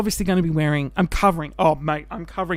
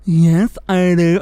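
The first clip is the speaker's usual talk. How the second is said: louder, eager acceptance; eager yes; 8 dB louder, slower than usual. Retold or imitated. Accepting Nick's float invite, retold with loud eagerness. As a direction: blurt it out, thrilled. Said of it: "And I was like".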